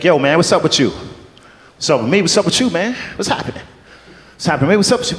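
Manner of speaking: mock street black accent, trading questions; put-on black accent. Actor freestyling both parts at audition, put-on black accent. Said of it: "I can do a black accent".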